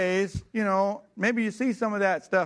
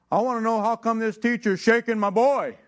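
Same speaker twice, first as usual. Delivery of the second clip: loud, higher angry demand; 5 semitones higher, 5 dB louder than usual. Retold or imitated. Dad confronting the principal over his son, loud and angry. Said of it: "he's mad. Loud. Mad".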